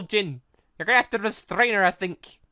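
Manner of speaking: ordinary talk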